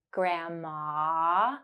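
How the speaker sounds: "Grandma" with the final ah drawn out; held ah. Shown as a demonstration. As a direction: stretch the last ah of "Grandma". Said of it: "ah sound at the end".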